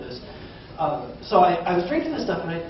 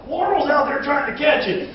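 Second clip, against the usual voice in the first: put-on southern accent; 10 semitones higher, 4 dB louder than usual. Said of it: "North Idaho has a southern accent".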